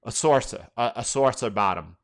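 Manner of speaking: saucer in a New York accent; natural New York accent on "saucer". Real, not acted. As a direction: say "saucer" like a New Yorker, "saw-suh". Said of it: "That's my New York accent".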